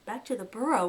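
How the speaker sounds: frightened little echo of the words; whimpering. Acted. Fiver refusing to go home, whimpering. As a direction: recoil at the idea, scared. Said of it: "whimpered Fiver".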